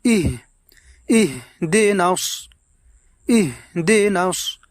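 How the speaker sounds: ইহদিনাস with a quick clipped jolt on ইহ; jerked ইহ. Shown as a demonstration. Teacher showing viewers the quick jolt on ইহ. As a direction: snap the ইহ in ইহদিনাস. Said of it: "একটু ঝটকা মারব".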